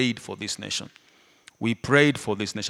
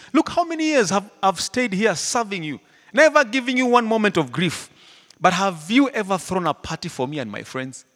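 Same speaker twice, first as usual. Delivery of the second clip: higher, louder, indignant rant; ranting complaint; 8 semitones higher, 6 dB louder than usual. Retold or imitated. Older brother to his father, a ranting mock complaint. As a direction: spit out the grievance. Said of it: "he's ranting".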